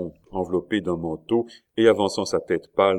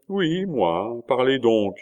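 higher, insistent prompting; raised, encouraging insistence; insistent urging; 6 semitones higher, 4 dB louder, slower than usual. A narrator's reading. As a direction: press the listener to speak up. Duke urges a wary captain on.

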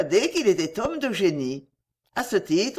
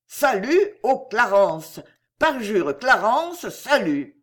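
Madame Luttridge; 3 dB louder, slower than usual. Retold or imitated. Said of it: "Quel incroyable talent d'imitation".

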